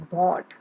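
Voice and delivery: "bought" said clearly as a model; model word bought. Shown as a demonstration. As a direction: say "bought" slowly and clearly for the class. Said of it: "It is pronounced as bought".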